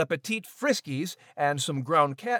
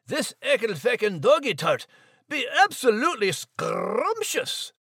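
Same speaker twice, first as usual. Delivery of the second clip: Scottish brogue; 4 semitones higher than usual. Acted. Scottish terrier savouring tart.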